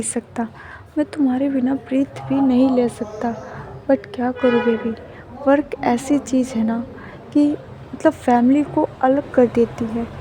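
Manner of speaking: soft, gentle lover's voice; lightly acted quiet affection; tender. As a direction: speak softly to a sweetheart. Tender goodbye between lovers in bed.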